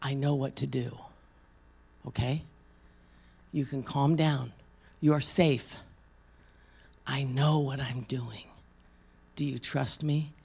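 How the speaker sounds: calm a frightened person gently; real soft. Retold or imitated. Preacher calming a scared woman, softly reassuring. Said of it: "I got real soft and I said".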